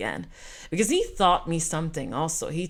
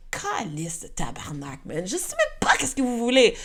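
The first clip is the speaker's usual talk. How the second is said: mock frustrated Québécois cursing, rising toward the end; swearing in Québécois French; 5 semitones higher than usual. Traveller cursing at French airport staff, mock exasperated. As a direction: vent like a fed-up Montrealer stuck at the airport. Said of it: "Like, I'm swearing".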